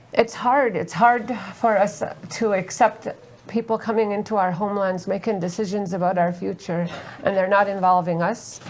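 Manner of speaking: holding back tears while speaking; getting emotional. Real, not acted. Guest tells the audience about oil drilling, tearful. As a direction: voice lifting with emotion over the homelands. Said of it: "I'm sorry, I'm getting emotional".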